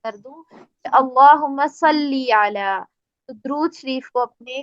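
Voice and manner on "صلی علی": صلی علی said slowly with a clear doubled lam; careful recitation. Shown as a demonstration. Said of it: "صلی آپ نے دیکھا ہوگا".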